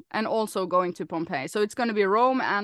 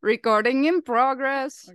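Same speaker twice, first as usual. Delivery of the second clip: slow, drawn-out automated recording announcement; Zoom lady; 3 semitones higher, 3 dB louder than usual. Acted. Co-host imitates the weekly recording notice, Zoom lady voice. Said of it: "Because that's the Zoom lady".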